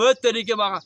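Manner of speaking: mock scolding. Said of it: "अगर मैं उनको डांट रहा हूँ".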